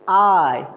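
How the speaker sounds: "I" said as the English vowel, not "आई"; correct I. Shown as a demonstration. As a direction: model the proper English "I" for students. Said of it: "what you can use?". (सही अंग्रेज़ी "I" का उच्चारण)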